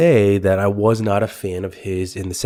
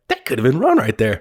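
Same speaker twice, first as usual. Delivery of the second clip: laughing quote; 4 semitones higher than usual. Retold or imitated. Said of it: "that moment like".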